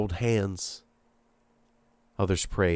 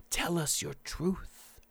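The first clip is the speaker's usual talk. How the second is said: put-on soft hushed child voice; whisper; 5 semitones higher, 9 dB quieter than usual. A narrator's reading. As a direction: keep it a whisper. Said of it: "the boy whispered".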